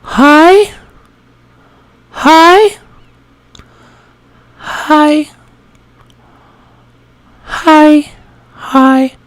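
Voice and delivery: repeated very high greetings; high feminine voice. Shown as a demonstration. Repeating one word for practice, high feminine voice. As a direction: hold each greeting high as a voice exercise. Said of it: "we're gonna practice some words".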